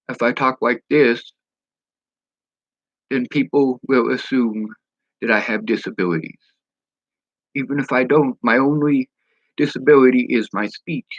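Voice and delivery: L and R slipping toward W; tongue-tied speech. Shown as a demonstration. Showing how people assume disabilities, tongue-tied R's and L's.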